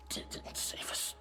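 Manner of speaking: slow, breathy near-whisper; hushed denial. Acted. Haunted survivor correcting what they were told, hushed denial. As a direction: let the voice drop away, slowly.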